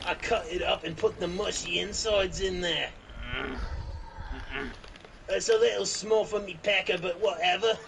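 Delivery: mock Australian accent. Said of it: "That's just Australian way".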